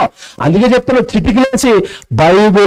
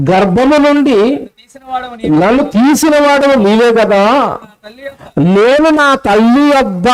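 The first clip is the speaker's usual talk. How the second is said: scripture reading; much slower than usual. Acted. Preacher reads a psalm verse to the congregation, slow raised scripture reading. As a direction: read the verse out slowly, drawing out each phrase. తొమ్మిదో వచనం చదువుతున్నారు.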